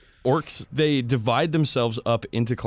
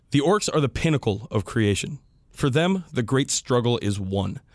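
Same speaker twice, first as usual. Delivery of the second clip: reading a quote. Shown as a demonstration. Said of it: "I would like to read a quick quote".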